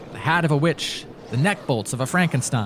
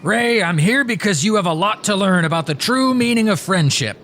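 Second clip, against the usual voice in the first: ghoul voice; 7 semitones higher, 4 dB louder than usual. Acted. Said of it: "I'm changing the vo".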